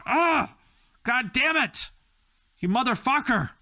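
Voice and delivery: high-pitched mock fury; exasperated outburst. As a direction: curse fate in a high, theatrical groan. Acted reaction to God's bad news.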